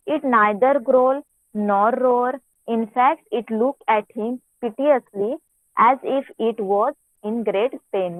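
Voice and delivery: reading the story aloud very slowly, word by word. Acted. Teacher reads the English story to her class in a slow reading voice. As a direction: read each phrase out slowly so the pupils can follow.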